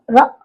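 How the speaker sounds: र as the short sound of R, not the letter name; a brief, clipped र. Shown as a demonstration. Teacher gives pupils the sound of R, short र. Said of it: "आर का उच्चारण होगा".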